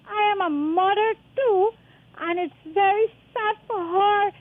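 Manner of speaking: tearful, voice cracking with grief; a grieving mother crying as she speaks; real crying. Real, not acted. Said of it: "I am grieving".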